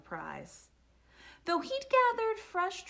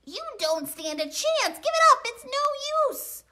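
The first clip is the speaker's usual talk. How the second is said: loud taunt climbing higher; raised, boisterous squabbling shout; hollered taunt; 13 semitones higher, 8 dB louder, faster than usual. A narrator's reading. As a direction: holler it at a rival, peaking midway. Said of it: "hollered Bruce".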